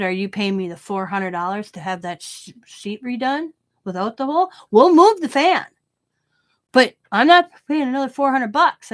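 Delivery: heated retold telling-off, loud at move the fan; mock fury at the inspector, rising; a retold heated argument over the fan; angry retort.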